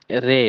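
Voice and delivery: "রে" said with a thin, light r; thin pronunciation. Shown as a demonstration. Teacher models the letter name for students, thin "রে". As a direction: pronounce "রে" thin, not heavy. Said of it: "পাতলা হবে এটা".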